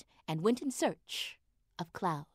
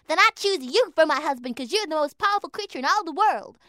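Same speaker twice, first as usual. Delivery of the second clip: eager little mouse; 6 semitones higher, 6 dB louder, faster than usual. A narrator's reading. Lana mouse speaking.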